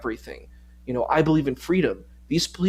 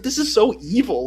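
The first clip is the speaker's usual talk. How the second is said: retold outrage; 8 semitones higher, 6 dB louder than usual. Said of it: "I was like".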